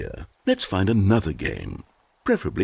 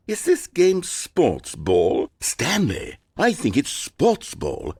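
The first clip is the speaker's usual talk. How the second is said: excited; 6 semitones higher, much slower than usual. Acted. Narrator delighted by a ball.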